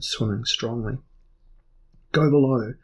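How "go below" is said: loud curt order. Acted. Earl orders Elric below, loud. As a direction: send them below. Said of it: "Saxif Dan ordered".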